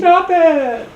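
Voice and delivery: very high, loud squeal. Pretend.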